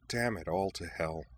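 grit it out under your breath; muttered through teeth. Acted. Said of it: "she muttered through her teeth".

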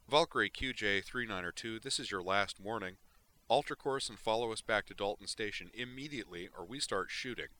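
lightly voiced patrol pilot, firmer; final warning over the radio; comm officer warning.

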